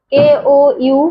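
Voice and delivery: কেওইউ sounded out letter by letter. Shown as a demonstration. Teacher sounding letters for kids, spelled out. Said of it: "অনুস্বারের উচ্চারণটা".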